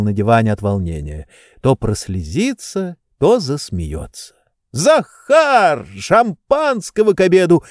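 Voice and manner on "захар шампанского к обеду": high call for the servant; mild excited shout for Zakhar. A narrator's reading. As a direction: call out across the house, high. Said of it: "закричал он".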